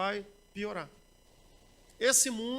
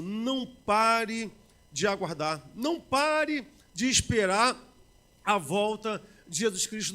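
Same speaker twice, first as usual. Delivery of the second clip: fervent exhortation; 3 dB louder, much slower than usual. Acted. Urgent exhortation.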